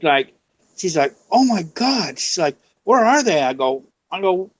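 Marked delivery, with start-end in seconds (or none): 1.3-2.2 high-pitched mock alarm; neighbor tripping out. Neighbor hearing the spirit box, imitated as tripping out. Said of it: "she starts tripping out". 2.8-3.4 high, mock-alarmed question; neighbor tripping out. Neighbor asking where the spirits are, imitated as tripping out. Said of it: "she starts tripping out".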